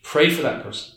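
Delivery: soft counsel. Shown as a demonstration. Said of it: "I say".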